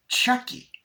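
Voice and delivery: high, loud doll voice; Chucky voice. Retold or imitated. Chucky greeting Tyler, high loud doll voice. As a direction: announce it like the killer doll.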